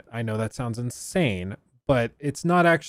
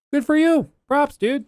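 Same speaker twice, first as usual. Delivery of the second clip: excited cheer; 6 dB louder than usual. Real, not acted. Cheering on a watch owner.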